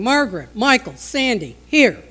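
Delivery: loud, punched imitation of a summoning father; dad calling out. Dad calling his children to him, loud and commanding. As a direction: bark each child's name, hardest on the last word. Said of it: "I can remember my dad going".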